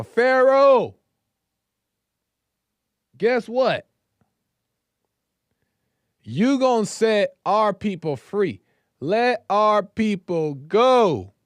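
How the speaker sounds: high, loud and proud, last line slow; bold demand. Retold or imitated. Moses and Aaron demanding to Pharaoh, loud and bold. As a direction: call out to Pharaoh full of confidence.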